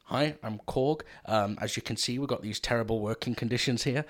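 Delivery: put-on lightly done New Zealand accent; a hint of New Zealand accent, mildly put on; Korg. Fan quoting the rock monster's funny bit, light New Zealand accent. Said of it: "his New Zealand accent is what he does when he plays Korg".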